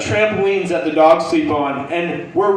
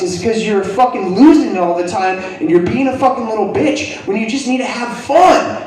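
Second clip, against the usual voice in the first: raised-pitch mock scolding; drill sergeant tirade; 4 semitones higher, 3 dB louder than usual. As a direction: lay into him like a drill sergeant. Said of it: "laying into him like a drill sergeant".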